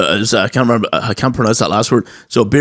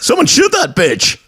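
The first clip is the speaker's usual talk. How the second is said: high, slow mock outrage; mock outraged relative; 14 semitones higher than usual. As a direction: drawl it in fake horror. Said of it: "and they're like".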